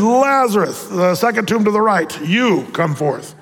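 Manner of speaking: slow pointed you come forth; specific summons. Acted. Jesus singling out Lazarus's tomb, slow pointed call. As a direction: direct him to his tomb. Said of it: "He said".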